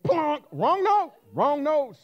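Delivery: high, loud cry; hammed-up dismay; mock alarm. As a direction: blurt out the mistake. Acted recital blunder.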